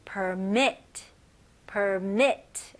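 permit with mit stressed, per light; stress on second syllable. Shown as a demonstration. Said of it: "두 번째 음절에요".

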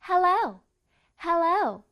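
hello with the O emphasised; "hello" with a clear, emphasised O; stressed O. Shown as a demonstration. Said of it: "O 발음을 한번 강조시켜 볼게요".

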